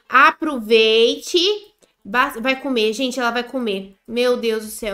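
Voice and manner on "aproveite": drawn-out sweet aproveite. Acted. To her character, a slow tender aproveite. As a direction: stretch aproveite slowly, warm. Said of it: "Vou falar assim".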